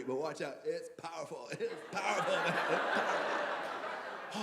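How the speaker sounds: soft, trailing off to a whisper; hushed mock warning. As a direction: play an awed stoner, fading out. Fan warning about edible, fading away.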